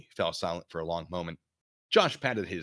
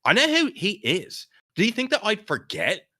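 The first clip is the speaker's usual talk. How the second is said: put-on Irish accent; 13 semitones higher, 7 dB louder than usual. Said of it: "going to, like, Irish".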